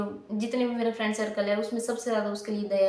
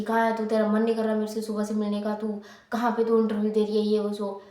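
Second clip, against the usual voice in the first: retold scolding. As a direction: scold her like an older sister. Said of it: "मैंने उसको डांटा". (हल्की डाँट, थोड़ी ऊँची आवाज़ में)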